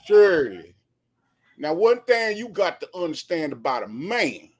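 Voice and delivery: Steve Harvey impression. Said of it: "Say that one more time".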